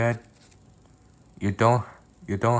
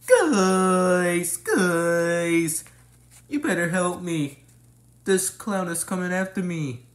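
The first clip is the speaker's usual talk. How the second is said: high, frantic calling out; panicked call for help; 8 semitones higher, slower than usual. Acted. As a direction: yell for help, scared stiff.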